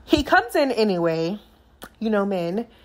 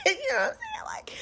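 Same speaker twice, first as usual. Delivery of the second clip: whisper; 8 dB quieter, faster than usual. Real, not acted. Excited aside to viewers.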